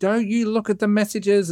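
high-pitched screaming. Retelling how she started screaming at Noelle; retelling a scream. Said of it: "just starts screaming at Noelle".

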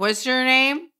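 brash, loud, high-pitched shout. Retelling the bride heckling during the vows: imitating a heckler. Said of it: "She heckled him, being like".

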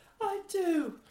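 very high, tiny character voice. Acting out a wedding in which the coffee answers: voice of the coffee. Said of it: "Is that the voice of the coffee?".

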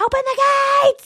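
very high, loud, shrill screaming woman's voice. Imitating the screaming Russian lady from Austin Powers: imitating a screaming Russian lady. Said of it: "She's always screaming".

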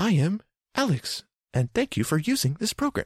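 synthetic text-to-speech voice, pitched way up. Describing a program's generic ai bot voice by imitating it: robotic computer voice. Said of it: "so I guess a little robotic".

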